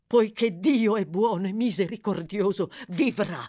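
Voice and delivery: a touch of vehement conviction; fervent reassurance. Acted. Doctor reassuring the mother, fervent. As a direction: proclaim it with fervour, easing toward the end. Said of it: "gridò il dottore con foga".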